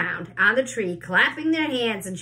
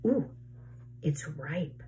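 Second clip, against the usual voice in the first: awed cry; 4 semitones lower, 7 dB quieter, slower than usual. A narrator's reading. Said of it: "she cried".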